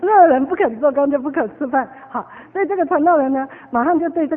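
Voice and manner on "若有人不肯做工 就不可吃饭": emphatic scripture. Acted. Repeating the verse.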